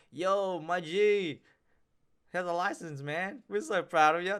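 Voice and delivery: high, loud bro voice of excited mates; hyped mates. Retold or imitated. Mates cheering their newly licensed friend, loud high bro voice. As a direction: gush like proud buddies hyping you up. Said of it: "your mates be like".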